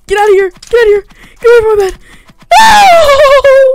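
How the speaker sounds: high, loud yells building to a scream; panicked shouting. Real, not acted. Player defending his bed from attacker, panicked shouting. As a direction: drive them off, rising to a scream.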